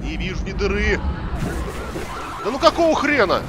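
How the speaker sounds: exasperated shout at the screen; loud, high angry outburst; raging gamer. Real, not acted. Frustrated gamer yelling.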